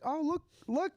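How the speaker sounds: high, slow excited call; high-pitched mock Irish lad calling his friend; voicing Tim. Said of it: "And he's like".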